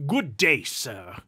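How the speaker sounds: loud first words, dropping on the last; curt dismissal. Acted. Duke ending talk with his nephew, curt dismissal. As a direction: cut him off loudly.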